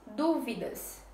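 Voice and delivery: dúvidas slowly, DU strongest; stress on DU. Shown as a demonstration. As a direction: stretch dúvidas, leaning on DU. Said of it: "du é a palavra mais forte". (dúvidas devagar, com DU tônico)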